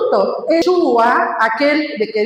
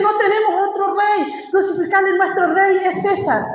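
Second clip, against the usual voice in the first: mock crowd reply; 5 semitones higher than usual. Priests answer Pilate, retold.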